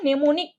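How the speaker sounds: নেমোনিক starting on an n sound; নেমোনিক begun as "ne", no m heard; pronounced with N. Shown as a demonstration. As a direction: say নেমোনিক with ন first, silent m. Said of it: "উচ্চারণ ন দিয়ে হচ্ছে".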